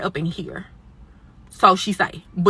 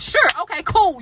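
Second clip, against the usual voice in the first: sarcastic; 10 semitones higher, 3 dB louder than usual. Retold or imitated. Sarcastic retorts, high.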